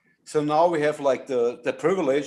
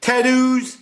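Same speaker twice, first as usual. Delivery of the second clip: put-on Australian accent; 7 semitones higher, 5 dB louder than usual. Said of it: "This is the Australian accent version".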